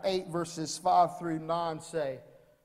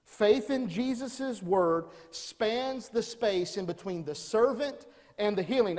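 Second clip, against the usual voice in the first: slow emphasis. Shown as a demonstration. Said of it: "Number one".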